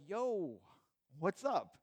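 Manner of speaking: Jesus greeting the women casually; nonchalant greeting. Retold or imitated. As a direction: toss it off like a buddy dropping by. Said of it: "he's nonchalant".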